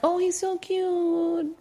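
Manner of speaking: dreamy high gush at a cute pet. Retold or imitated. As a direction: coo it like a smitten owner. Gushing over the puppy.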